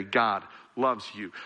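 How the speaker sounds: "God loves you" slow and low; slow, earnest emphasis. Real, not acted. Preacher telling church to hear it again, slow earnest emphasis. Repeats key line to sink in.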